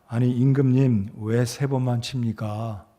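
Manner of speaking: low, restrained mock rebuke; understated acted indignation, softening and slowing; mildly enraged Elisha. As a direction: reproach the king with contained anger. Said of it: "엘리사가 대노를 합니다".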